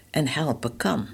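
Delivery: whispered aside, breath only. Real, not acted. Preacher to radio listener, whispering softly. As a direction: lean in and breathe the words.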